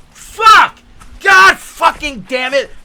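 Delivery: high loud furious swearing; cursing outburst. Retold or imitated. Santa choking on his beard, furious swearing. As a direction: explode at the ruined take. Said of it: "I cough on the something".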